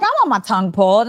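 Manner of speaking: clowning. Pretend. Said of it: "and I'm just clowning".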